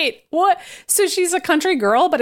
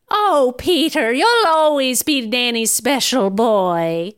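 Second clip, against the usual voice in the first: slow, lightly voiced doting nanny; slower than usual. Nanny reassuring her special boy, slow and doting. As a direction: draw it out to soothe the boy.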